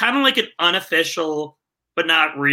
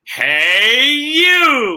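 loud infomercial pitchman call, drawn-out "you"; 7 semitones higher, 5 dB louder than usual. An author plugging his books, switching into his pitchman voice. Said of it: "I actually want to do my narrator voice. My pitchman's okay".

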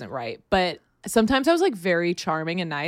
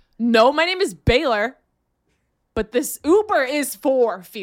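high-pitched, mad, annoyed tone; 6 semitones higher, 4 dB louder than usual. Speaker retells what the uber driver said when called the wrong name, imitating a mad driver. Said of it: "He was mad".

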